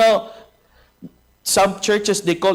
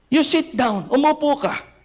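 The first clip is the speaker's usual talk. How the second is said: mock stern rebuke; 9 semitones higher than usual. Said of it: "Sinigawan siya".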